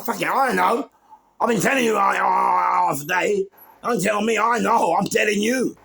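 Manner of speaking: loud, high, fed-up shouting at a friend; exasperated retort. Retold or imitated. Narrator yelling back at his mate Ian, loud and fed up. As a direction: yell it like he won't listen.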